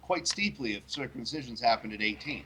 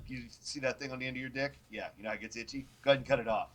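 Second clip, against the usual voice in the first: casual God voice; faster than usual. Retold or imitated. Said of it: "And God goes".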